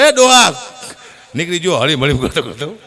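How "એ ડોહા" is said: put-on loud high shout at the old man; mock angry yell. Innova driver yelling at the old man, loud mock shout.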